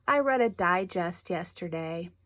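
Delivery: "digest" with the weight on its first syllable; stress on first syllable. Shown as a demonstration. Teacher showing pupils the magazine word, stress on first syllable of "digest". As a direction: say "digest" as the noun, DI-jest. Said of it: "emphasis on the first syllable".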